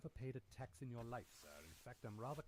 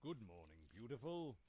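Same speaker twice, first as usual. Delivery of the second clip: flirtatious. Acted. Butler flirting with relative.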